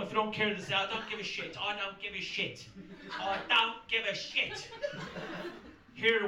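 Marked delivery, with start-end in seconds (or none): 0.7-4.7 softer mock-English indifference; English accent. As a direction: put on an English accent, stretching the last repeat. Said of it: "In England, they don't".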